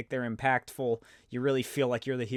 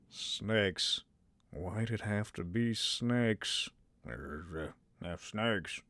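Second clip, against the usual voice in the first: much lower, softer, slow movie-hero drawl; Indiana Jones impression; 7 semitones lower, 8 dB quieter, much slower than usual. Shown as a demonstration. Vlogger trying his Indiana Jones voice, low and hushed. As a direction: drop low and murmur like a weary adventurer. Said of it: "I gotta work on my Indiana Jones".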